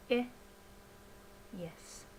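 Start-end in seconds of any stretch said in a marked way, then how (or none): 0.1-0.3 a lone short, lax "ih", written "I"; isolated unstressed "ih" for "I"; lowered I sound. Shown as a demonstration. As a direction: say "I" as the vowel "ih", not "eye". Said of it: "the lowered I sound".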